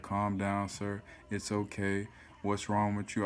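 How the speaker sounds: a hint of a flat, soft-spoken operator; mock the numb calm of 911; calm dispatcher. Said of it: "dispatch be so calm".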